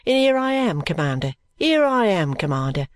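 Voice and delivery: high, eager call of Here I am, twice; spring up to report; eager cry. Acted. Phil offering himself to his commander, eager and high. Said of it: "cries Phil".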